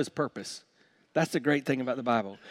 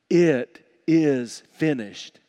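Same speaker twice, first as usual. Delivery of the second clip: slow, emphatic quotation; slow and deliberate, each word set apart; solemn quote; 5 dB louder, much slower than usual. Retold or imitated. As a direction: weigh each word heavily. Quoting Jesus' words on the cross.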